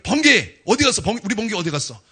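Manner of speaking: high playful call for John; calling out playfully. Retold or imitated. Jesus calling out for John, high playful call. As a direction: sing out the nickname across the room. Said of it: "요한에게는".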